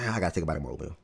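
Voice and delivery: talking through a mouthful of oatmeal; chewing between words; mouth full. Real, not acted. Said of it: "Bro, what are you eating".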